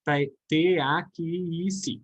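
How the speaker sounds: ta- then T A Q I C, letter by letter, slow; slow sounded-out spelling; spelled out in sounds. Shown as a demonstration. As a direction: sound out taxi as ta-k-si, slowly. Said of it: "Esse X a gente fala K S".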